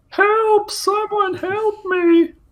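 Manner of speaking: very high-pitched fake damsel cry. Joking in a group about a magazine, doing a put-on woman's cry for help. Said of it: "What the fuck kind of voice was that?".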